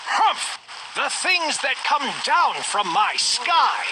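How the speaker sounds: high, slow, sputtering royal grumble; grumbling king. Acted. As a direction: huff it out like a cross old king. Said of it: "muttering and sputtering".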